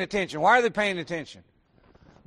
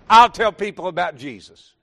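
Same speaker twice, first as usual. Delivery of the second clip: louder preached refrain; 7 dB louder than usual. Acted. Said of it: "repeated refrain, second louder".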